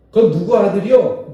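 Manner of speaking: loud curious elder asking, rising; curious old elder. Retold or imitated. Elder on the street asks whose son, loud and curious. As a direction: call out like a village elder.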